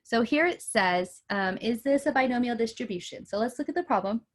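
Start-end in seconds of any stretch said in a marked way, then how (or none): 1.6-4.2 talking through a yawn; words stretched by a sleepy yawn. Real, not acted. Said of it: "I don't know why I'm yawning".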